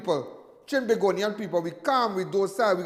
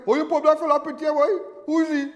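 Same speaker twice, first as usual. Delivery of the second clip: higher-pitched mock crowd astonishment; astonished onlookers; 6 semitones higher, 4 dB louder than usual. Everybody reacting to the posted picture, mock astonishment. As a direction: imitate nosy, astonished bystanders.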